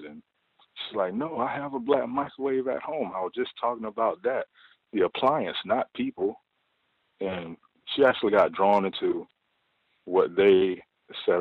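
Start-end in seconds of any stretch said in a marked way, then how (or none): 1.1-6.4 imitating a higher, flustered voice; mock flustered coworker explaining herself; flustered backpedaling. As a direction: backpedal fast like she's been caught out. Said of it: "she is just, like, panicking".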